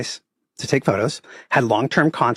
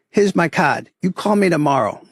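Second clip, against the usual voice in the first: put-on brisk Boston accent, a bit higher; 5 semitones higher than usual. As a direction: hand over the card like a Boston local. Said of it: "I'll play the Boston accent as much as I can".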